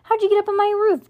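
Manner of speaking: high, fast questioning; suspicious challenge. A narrator's reading. Dino interrogates Ivy about his roof, suspicious. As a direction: fire the question at a high pitch.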